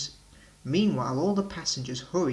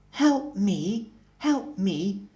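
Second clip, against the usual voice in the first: indignant; 6 semitones higher, 4 dB louder, much slower than usual. A narrator's reading. Thomas cross at Bertie.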